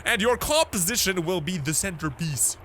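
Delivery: lightly hammed-up gentleman's letter; put-on letter-writer voice. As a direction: announce it with a flourish. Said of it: "I don't know if he talks like that either".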